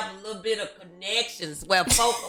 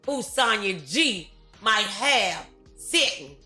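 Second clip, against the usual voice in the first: show sign-off; 5 semitones higher than usual. Real, not acted. Host thanks guests and audience for the show, upbeat sign-off. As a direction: send the audience off with lifted, projected energy.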